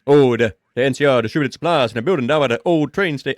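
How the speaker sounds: failing attempt at a famous singer's accent. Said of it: "I can't do it".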